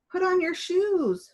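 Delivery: high, loud shout. A narrator's reading. Dolores shouting at Douglas to put on his shoes. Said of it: "she shouted".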